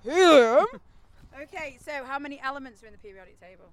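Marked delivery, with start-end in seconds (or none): 0.0-0.6 squeaky high helium voice. Pretend. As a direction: pitch it up like you sucked a balloon. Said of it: "put your best helium voice on".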